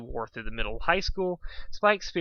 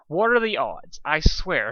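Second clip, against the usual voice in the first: exasperated; 3 semitones higher, 5 dB louder, slower than usual. Acted. Exasperated outburst.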